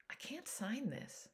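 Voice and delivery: quiet, slow, defeated refusal; weary sorrow. A narrator's reading. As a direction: say it softly and slowly, worn out. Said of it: "I shook my head".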